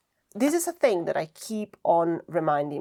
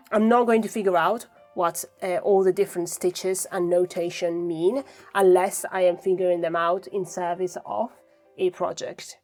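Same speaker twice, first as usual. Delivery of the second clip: husky morning rasp; breathy rasp, just woke up; 4 dB louder than usual. Real, not acted. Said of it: "Excuse the morning voice".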